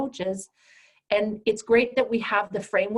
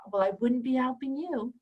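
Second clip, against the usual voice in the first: ordinary talk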